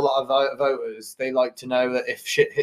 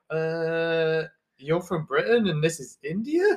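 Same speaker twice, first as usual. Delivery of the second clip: laughing mock question; 6 dB quieter, slower than usual. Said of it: "It's like".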